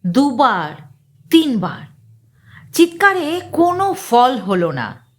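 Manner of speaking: usual speaking voice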